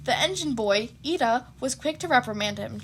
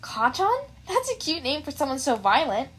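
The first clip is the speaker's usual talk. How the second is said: teasing; 2 semitones higher than usual. Acted. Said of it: "wickedness in her eyes".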